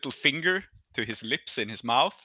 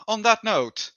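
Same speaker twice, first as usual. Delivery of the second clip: patron's voice; slower than usual. Acted. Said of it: "and he says".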